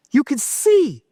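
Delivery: ordinary talk, nothing marked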